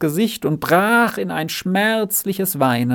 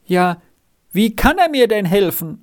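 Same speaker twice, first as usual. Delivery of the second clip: higher-pitched, mildly despairing moan; groaning; 6 semitones higher, 3 dB louder than usual. A narrator's reading. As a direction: groan the question hopelessly. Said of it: "stöhnte Renz immer noch in den Boden hinein".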